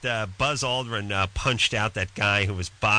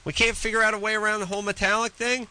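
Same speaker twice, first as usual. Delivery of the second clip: mock-exasperated rant; 7 semitones higher than usual. Real, not acted. Mock rant about useless microwaves.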